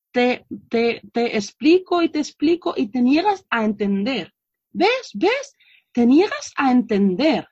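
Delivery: retold mother's scolding. Mother scolding child who won't understand, mock exasperation. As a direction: imitate a fed-up mother nagging, lightly. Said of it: "estas madres les dicen a estos niños".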